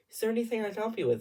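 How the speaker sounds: fast, high imitated reprimand; snapping director. Director suddenly calling out noisy singer, imitated snap. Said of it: "Mister Director Man snaps over".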